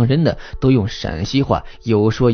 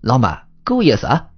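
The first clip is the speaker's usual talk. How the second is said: delighted; 3 semitones higher than usual. Acted. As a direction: cheer at the food and wine. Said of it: "顿时乐了".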